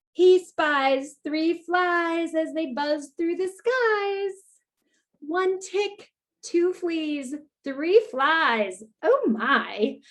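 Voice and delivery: slow, sing-song counting rhyme; storytime refrain. A narrator's reading. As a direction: chant the list like a nursery rhyme.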